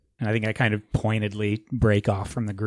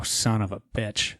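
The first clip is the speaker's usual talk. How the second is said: normal talking voice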